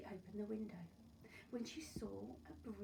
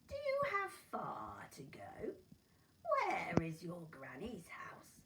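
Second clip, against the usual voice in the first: prying wolf; 4 dB louder than usual. Acted. Wolf probes for directions.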